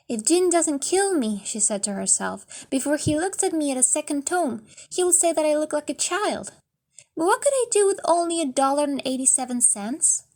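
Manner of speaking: put-on a young wife fretting at her mirror; young wife worrying. Della worried at the mirror.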